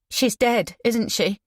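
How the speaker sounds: dreading the answer; fearful. Acted. Shocked girl asks.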